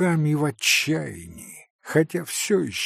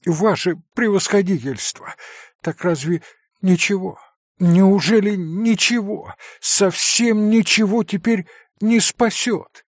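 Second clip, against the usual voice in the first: desperate plea; 7 semitones higher than usual. A narrator's reading. Father begs doctor to save son, desperate. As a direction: beg as hope slips away.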